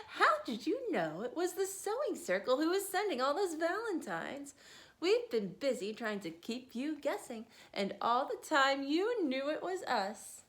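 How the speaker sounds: teasing grandmother; grandmother declaring. Acted. Grandmother teases Whiskers about valentines. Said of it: "declared grandmother".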